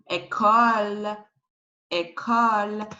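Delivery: "école" as ay-KOL, closed first vowel; French pronunciation demo. Shown as a demonstration. Teacher modelling a word, "école" as ay-KOL. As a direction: say "école" in French, hard K in the middle. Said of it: "you pronounce this one".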